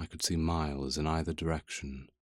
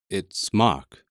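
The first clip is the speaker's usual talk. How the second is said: husky; 3 semitones higher, 7 dB louder than usual. A narrator's reading. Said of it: "I managed huskily".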